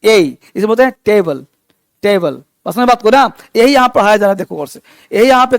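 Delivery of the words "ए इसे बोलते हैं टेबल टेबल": टेबल said slowly, first syllable ए as in "ay"; drawing out टेबल for the class; slow pronunciation demo. Shown as a demonstration. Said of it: "ए को ए पढ़ते हैं". (टेबल को धीरे से, ए वाली ध्वनि के साथ)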